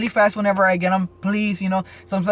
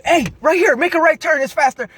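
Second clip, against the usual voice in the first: high, loud pushy passenger voice; 10 semitones higher, 5 dB louder than usual. Retold or imitated. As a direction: bark directions from the back seat, high and loud. Quoting a distracting passenger.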